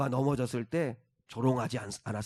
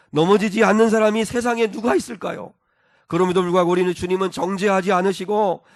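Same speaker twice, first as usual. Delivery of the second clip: louder, rising preacher's build; preaching at full force; 4 semitones higher, 6 dB louder than usual. Acted. Preacher urging believers to rise again, louder and fervent. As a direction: drive it home to the congregation.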